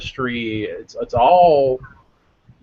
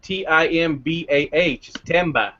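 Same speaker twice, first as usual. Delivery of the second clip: "timber" with the r dropped to "ah"; New England "timber", ending in open "ah"; New England accent. Shown as a demonstration. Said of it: "if you sell it in New England".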